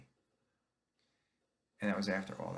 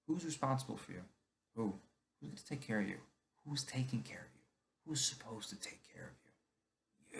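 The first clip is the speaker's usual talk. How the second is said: pointed questions; 3 semitones higher than usual. Retold or imitated. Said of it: "he would always say".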